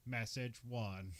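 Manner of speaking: slow, stiff robot voice. Retold or imitated. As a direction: read it like a robotic answering machine. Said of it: "a very weird robotic voice".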